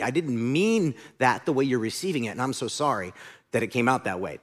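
sincere apology. Shown as a demonstration. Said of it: "that is acceptable".

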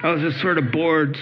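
high, fast offhand bragging; breezy showoff tone; mock casual boast. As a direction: toss it off like it's nothing. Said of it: "What did you do today".

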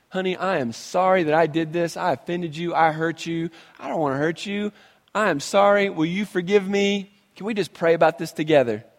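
soft, humble apology to his wife; gentle sincere apology. Pretend. Husband softly apologizing to his wife, sincere. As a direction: say sorry tenderly, asking forgiveness.

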